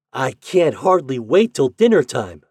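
can-hardly-wait eagerness; excited boy. A narrator's reading. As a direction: burst out like an impatient, happy child. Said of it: "with an excited skip".

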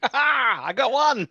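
laughing, delighted squeal; excited. Real, not acted. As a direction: cheer it with a high laugh. Excited over a dice roll.

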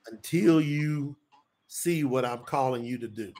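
measured, weighty quoted pronouncement; solemn divine pronouncement. Retold or imitated. Voices God speaking to him.

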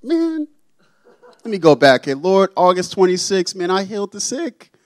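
mock someone listing miracles to Jesus; boastful believer. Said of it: "many people come up to the Lord and say".

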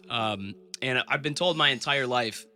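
"told" drawn out slowly, a measured opening; slow first take before the digression; slow start. Real, not acted. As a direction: ease into "I've been told my entire life" slowly. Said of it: "I'll digress for a second".

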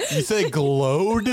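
slow, amused, laughing through glowed. Real, not acted. Host teasing co-host's slip, laughing. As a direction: tease her over "glowed" with a laugh.

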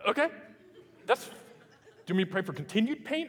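laughing through the punchline; real amused laughter. Real, not acted. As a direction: chuckle as you ask. Laughing retelling his reply.

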